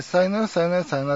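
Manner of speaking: high sing-song sayonara, ra lifted; light mock farewell; imitating the sign-off again. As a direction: repeat the host's triple goodbye with a lilt. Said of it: "って三回言うんですけども".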